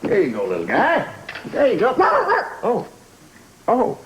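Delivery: very high-pitched coo to a little animal; cooing to a pet. Acted. Man handing over a little surprise, high cooing.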